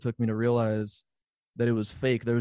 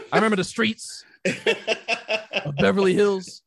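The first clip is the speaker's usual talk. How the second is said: mock nostalgia; 6 semitones higher, 4 dB louder than usual. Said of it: "mock nostalgic joke".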